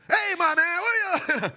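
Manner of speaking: lightly voiced tough guy greeting; a hint of a loud street hello; Dave side greeting. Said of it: "the Dave side".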